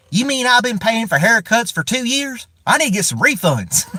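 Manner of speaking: high, hammed-up redneck voice; a lightly voiced redneck in disbelief; redneck guy. Vlogger pitching his joke video, high mock redneck voice. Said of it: "my redneck guy hearing that going".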